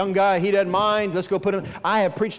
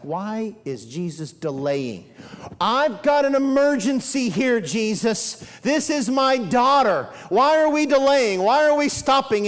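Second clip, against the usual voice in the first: impatient plea; slower than usual. Retold or imitated. Impatient desperate father voiced.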